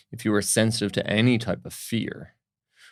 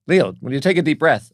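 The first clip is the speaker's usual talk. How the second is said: higher, louder, fed-up doctor demand; imitating a doctor losing patience, raised voice; exasperated doctor; 7 semitones higher, 8 dB louder than usual. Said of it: "And he's like".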